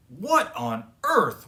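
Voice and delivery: startled grandma asking; puzzled surprise. A narrator's reading. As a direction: wonder aloud, baffled. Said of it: "wondered Gran".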